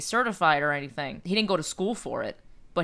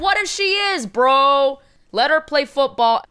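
high, louder retort to the mother; defiant retort; 7 semitones higher, 7 dB louder than usual. Retold or imitated. Speaker answering the disapproving mother, loud defiant retort. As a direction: push back hard for the daughter. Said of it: "And I'm like".

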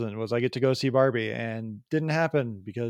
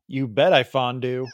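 put-on wrong Peggy Carter accent; 5 dB louder than usual. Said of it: "I did the Peggy Carter accent wrong".

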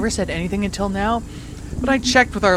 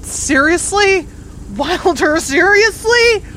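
high, loud, drawn-out outrage; seriously, Wilder, you can't be serious; exasperated disbelief; 9 semitones higher, 5 dB louder, slower than usual. Real, not acted. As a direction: stretch each seriously in disbelief. Exasperated at bad news.

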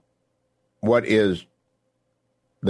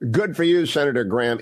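excited approval; 6 semitones higher than usual. Real, not acted. Host cheers Graham clip.

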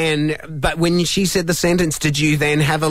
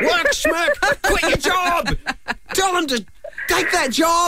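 excited, teasing; 10 semitones higher, slower than usual. Pretend. Urging her to quit.

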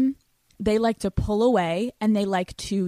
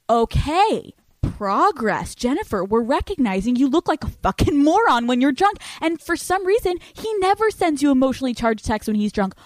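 mock scolding; 5 semitones higher, 4 dB louder than usual. Mock-scolding inner coach.

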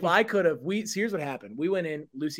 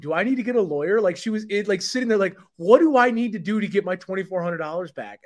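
imitating distressed lady; 3 semitones higher than usual. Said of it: "and I quote".

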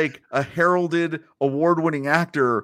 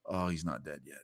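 much lower, much softer deflated sigh of a line; destitute dismay; 16 dB quieter than usual. Retold or imitated. Hulk seeing the villain alive, deflated and glum. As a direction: let it fall flat with shoulders dropped. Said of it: "that moment where it's like".

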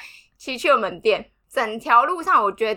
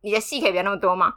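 calm deadpan; 5 semitones lower, much faster than usual. Retold or imitated. Partner telling the crying narrator to stop the drama, fast cool deadpan. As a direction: brush off the drama coolly. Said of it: "他就很冷静的看着我说".

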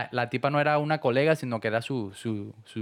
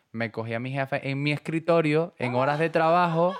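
rising higher and louder toward the punchline; mock scandalized confession; 5 semitones higher, 4 dB louder than usual. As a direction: read it like a juicy confession that builds. Friend's scandalous message read aloud.

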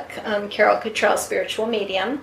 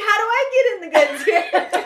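mock pleading; 9 semitones higher than usual. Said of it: "I'm like".

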